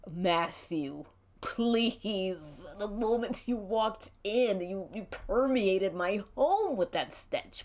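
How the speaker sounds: a hint of a fussy old queen; prim, slow scolding as Dookie; mildly camp disdain. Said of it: "an old queen kind of voice".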